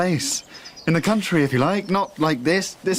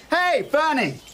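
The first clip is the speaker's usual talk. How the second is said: put-on high, slow playful call to a child; playful lion game; 9 semitones higher than usual. Father plays the lion with his daughter, slow and high. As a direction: tease her like a game lion coming to get her.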